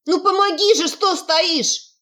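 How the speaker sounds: high, loud desperate cry for help; desperate shout. Acted. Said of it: "отчаянно крикнула ведьма".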